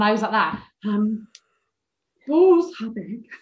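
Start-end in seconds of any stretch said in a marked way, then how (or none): 2.3-3.3 slow, halting nervous read-aloud; stiff, nervous stumbling reading. Retold or imitated. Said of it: "so fucking nervous".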